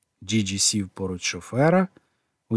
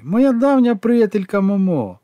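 high, loud and slow, savouring it; fond exclaim; 10 semitones higher, 5 dB louder than usual. A narrator's reading. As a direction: proudly announce his old friend. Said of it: "вигукнув Джіджі".

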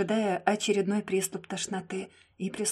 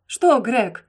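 angry outburst, much louder; exploding; 3 semitones higher, 9 dB louder than usual. A narrator's reading. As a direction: burst out furiously at her. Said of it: "взорвался Симмонс".

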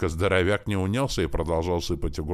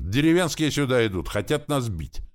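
higher, louder alarmed warning; excited higher warning cry; excited shout; 8 semitones higher, 4 dB louder than usual. A narrator's reading. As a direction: sound the alarm, breathless with news. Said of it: "возбуждённо закричал Лившиц".

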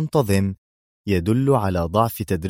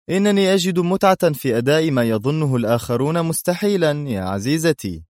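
sarcastic; 7 semitones higher, 3 dB louder than usual. A narrator's reading. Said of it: "في سخرية".

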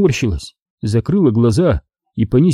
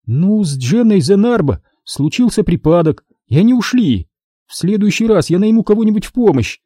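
Astri voiced high; 8 semitones higher than usual. A narrator's reading. Dazed daughter asks her father what happened, pitched high.

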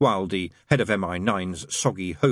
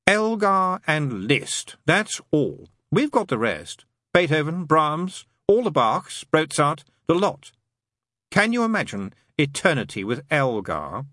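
high, punched, drawn-out demon voice; emphatic demon character; 8 semitones higher, 3 dB louder, slower than usual. Acted. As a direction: press the argument as a wily demon.

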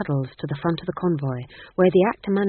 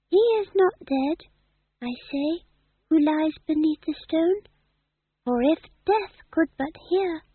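actor-manager's tragic recital; 11 semitones higher than usual. Acted. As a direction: declaim like a ham tragedian on stage. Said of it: "do you know my speech".

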